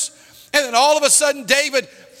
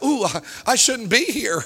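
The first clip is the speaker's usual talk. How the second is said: ordinary delivery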